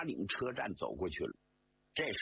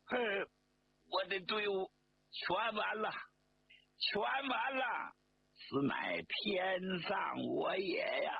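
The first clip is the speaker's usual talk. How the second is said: slow, drawn-out acted wail, high and breaking; 6 semitones higher than usual. General lamenting his army before the rebels, hammed-up wailing. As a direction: wail in despair over his lost army. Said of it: "放声大哭".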